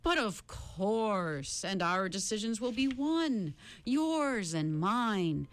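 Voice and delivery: lightly voiced smooth-talking captor; man on the chair. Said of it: "Charles Wallace said".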